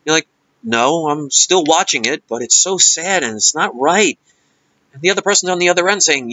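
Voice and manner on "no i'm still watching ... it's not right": slow, mildly mopey caller; mock sad. Imitating a caller still watching a sad movie, mock sad. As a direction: answer in feigned sorrow. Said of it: "or sad".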